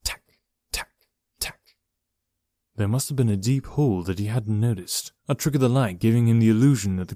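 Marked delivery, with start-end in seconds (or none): 0.0-1.6 short sharp insect clicks; clicking sounds. A narrator's reading. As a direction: click like a bug. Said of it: "it made several strange clicking sounds".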